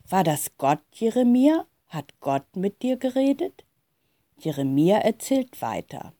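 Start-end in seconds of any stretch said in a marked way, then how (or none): 0.1-3.6 put-on mildly excited child's questions, rising at the ends. A narrator's reading. Lea asks Jeremia whether God spoke, mildly excited. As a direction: ask with a touch of eager excitement. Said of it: "Lea fragt ganz aufgeregt".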